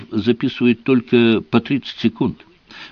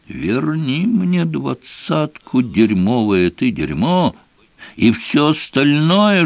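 tearful. Acted. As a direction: beg through tears for the money. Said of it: "у меня в голосе послышались слёзы".

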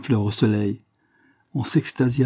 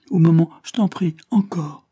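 high, breathy whispered plea; pleading whisper; 8 semitones higher, 4 dB louder than usual. A narrator's reading. Little girl whispering to the old man to keep going, pleading. Child pleading for more play.

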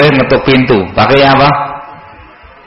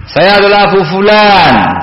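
higher pitch, slow, distinct; clear self-introduction; 4 semitones higher than usual. Shown as a demonstration. Guest at the door giving his name, clearly. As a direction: state who you are clearly and slowly.

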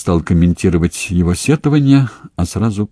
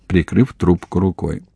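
usual speaking voice

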